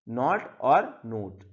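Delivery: नॉट with an open vowel, नोट with a rounded "oh"; contrasting pronunciation. Shown as a demonstration. Teacher showing learners that two spellings sound different, slow contrasting pronunciation of नॉट and नोट. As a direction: slowly separate नॉट from नोट, each vowel distinct. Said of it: "इनके pronunciation भी अलग है".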